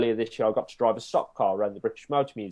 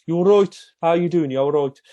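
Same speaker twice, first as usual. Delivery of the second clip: put-on thick Black Country accent, higher and louder; 6 semitones higher, 6 dB louder than usual. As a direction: greet them like a Black Country local. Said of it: "I had a very thick black country accent there".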